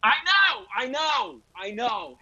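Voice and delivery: embarrassed repeated agreement; cringing. Real, not acted. Cringing at own gaffe.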